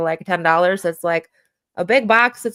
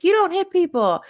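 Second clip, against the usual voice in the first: put-on higher, louder scold of the child; scolding parent; 10 semitones higher, 4 dB louder than usual. Shown as a demonstration. Parent scolding a child who hits, sharp and raised. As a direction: snap it like a stern parent. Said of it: "instead of saying".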